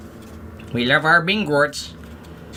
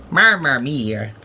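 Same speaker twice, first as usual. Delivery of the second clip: Luigi voice; slower than usual. Pretend. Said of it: "does Luigi say that?".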